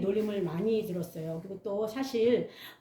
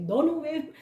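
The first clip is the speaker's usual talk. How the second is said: put-on higher and louder, scolding the boy; a teacher scolding the bully in the hallway, raised voice; 3 semitones higher, 5 dB louder than usual. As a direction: tell him off sharply like a strict teacher. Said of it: "야단치는 거예요".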